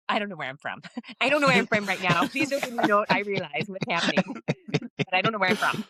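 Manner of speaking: put-on Newfoundlander slipping into a Texas accent; lost between Texas and Newfoundland accents; muddled stage accent. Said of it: "as my Newfoundlander in a Texas a-, Texas accent".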